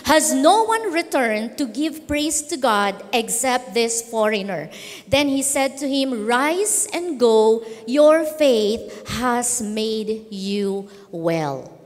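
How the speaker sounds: slow, measured Bible reading; slowing to a solemn close; scripture reading. Real, not acted. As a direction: read the verse aloud, lingering on the words. Reads scripture aloud.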